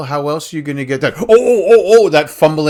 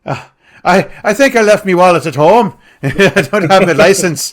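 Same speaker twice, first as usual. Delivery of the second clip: mock Irish accent; 3 semitones higher than usual. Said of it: "if our Irish accents are bad".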